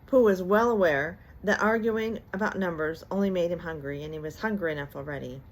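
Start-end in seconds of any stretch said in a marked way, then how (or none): none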